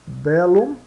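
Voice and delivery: "Bellum" with both Ls sounded, rising end; double L sounded. Shown as a demonstration. Teacher reading out the example of double L, clearly articulated. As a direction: say "Bellum" with the L heard twice. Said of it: "se pronunciam separadamente".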